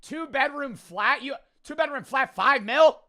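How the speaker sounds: high, loud British-style mock disbelief; hammed-up British indignation; mock British outrage. Mocking the British hosts over the price, hammed-up British outrage.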